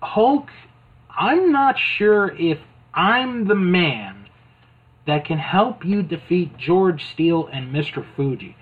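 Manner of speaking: light mock concern; worried Mean Gene. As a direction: voice your doubts to your partner. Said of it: "he's like".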